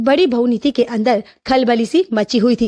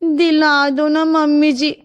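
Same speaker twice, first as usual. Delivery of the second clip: pleading. Acted. Daughter-in-law begs for a sari.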